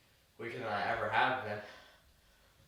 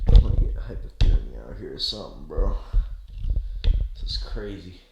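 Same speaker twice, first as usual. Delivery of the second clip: loud exclaim; 5 semitones lower, 14 dB louder than usual. Real, not acted. Freezing outside, exclaiming.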